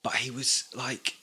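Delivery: breathy unvoiced whisper, as if sneaking. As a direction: drop to a secret whisper mid-story. Whispering mid-story, no one names it.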